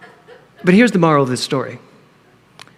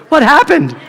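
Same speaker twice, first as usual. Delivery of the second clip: high, startled "What happened?"; shocked; 9 semitones higher, 4 dB louder than usual. Retold or imitated. Seeing herself after a Zoom call, startled. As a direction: gasp it at your own face. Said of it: "you're like".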